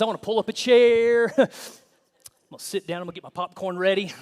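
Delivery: hammed-up delight at the drama; mock eager onlooker. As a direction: sound like you're settling in to watch a fight.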